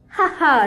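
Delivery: snake's scornful ha-ha; a touch of a sneering snake laugh; mocking laugh. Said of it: "rief die Schlange".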